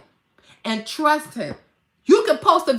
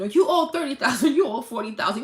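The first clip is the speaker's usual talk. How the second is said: ordinary talk, nothing marked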